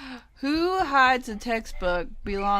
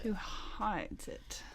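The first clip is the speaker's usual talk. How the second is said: hushed, breathy whisper; 15 dB quieter, much slower than usual. Real, not acted. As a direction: whisper the question. Whispered repeat of question.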